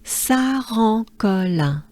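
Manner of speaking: Saran-Colin drawn out slowly with French nasal vowels; French place name. Shown as a demonstration. Teacher leading learners together, slow French Saran-Colin. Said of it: "as a whole, we can do this".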